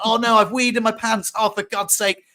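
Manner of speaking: high-pitched retold dismay; mock-panicked wail at oneself; stressed dismay. Thinking they've wet their pants while driving, stressed. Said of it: "that's how stressed I was".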